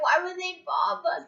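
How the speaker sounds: high-pitched fake wail; mock crying. Stoned, asking about the bombing, mock crying. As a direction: plead it high, hammed-up tearful. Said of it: "I'm literally crying".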